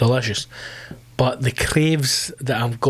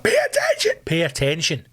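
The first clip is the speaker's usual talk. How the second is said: screamed pay attention, pitch jumping high; mock yell at drivers; 4 semitones higher than usual. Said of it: "I'm like".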